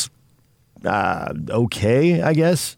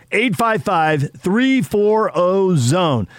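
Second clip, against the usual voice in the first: slower, climbing on three four oh; drawn-out number repeat; 7 semitones higher, much slower than usual. Acted. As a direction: stretch each digit out on the repeat. Phone number repeated, stretched.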